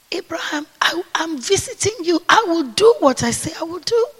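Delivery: a hint of a tender divine call; soft calling of God; gentle voice of the Lord.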